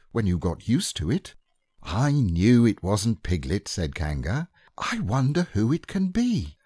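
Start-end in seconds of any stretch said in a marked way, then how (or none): 1.8-6.6 mock-puzzled mother. Kanga voiced.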